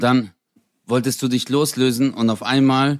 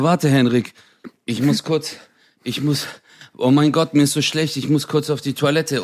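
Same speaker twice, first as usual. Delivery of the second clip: feeling sick; 4 semitones higher than usual. Retold or imitated. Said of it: "auf einmal wurde dir komplett schlecht".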